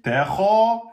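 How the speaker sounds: thin the Ta, then a long kha; thinned ta. Shown as a demonstration. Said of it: "là, aminci".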